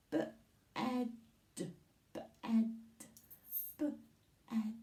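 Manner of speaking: "B-ed" split into its sounds; sounding out. Shown as a demonstration. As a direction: sound out "B-ed" slowly for the class. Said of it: "How many sounds can you hear?".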